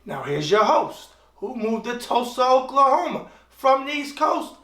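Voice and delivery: a hint of a boxing ring announcer; announcer intro. Self-introducing show host opening.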